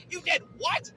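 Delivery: high incredulous question; shocked disbelief. Acted. Boy to neighbor about the garbage, shocked disbelief. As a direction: blurt it out, pitch leaping up.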